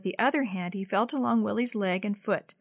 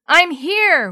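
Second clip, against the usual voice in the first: higher, louder shout back; calling back; 8 semitones higher, 12 dB louder than usual. A narrator's reading. Boy answering the rescuers through the trees, shouting. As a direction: shout so the searchers hear you. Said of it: "Willie called back".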